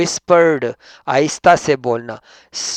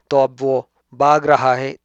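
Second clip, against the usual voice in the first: teacher lifting the vivid example; louder example; 4 dB louder than usual. Shown as a demonstration. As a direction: punch "भाग" with a lift in volume. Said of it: "अगर इसका vivid verb हम use करेंगे".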